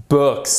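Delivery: BOOKS with short vowel and final ks; one isolated falling BOOKS; repeat-after-me model. Shown as a demonstration. Teacher invites students to repeat, model pronunciation.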